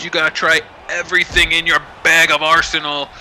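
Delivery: lively wrestling commentator calling the action; play-by-play commentary. Acted. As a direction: call every move like a ringside announcer. Live play-by-play of wrestling match.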